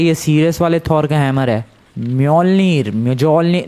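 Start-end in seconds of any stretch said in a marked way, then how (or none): 2.0-2.9 "म्योल्निर" in two main beats, myol-neer; trying a name. Shown as a demonstration. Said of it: "ऐसा कुछ तो weird सा name है". 2.9-3.7 "म्योजोल्निर" with the j pronounced; mistaken pronunciation. Shown as a demonstration. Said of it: "नहीं, म्योजोल्निर नहीं".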